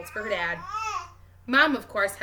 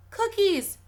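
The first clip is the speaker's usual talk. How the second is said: put-on high, loud toddler squeal; excited scream; 11 semitones higher, 5 dB louder than usual. A narrator's reading. Little girl screams at the sight of cookies, loud squeal. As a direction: shriek it like a greedy toddler. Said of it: "Penny screams".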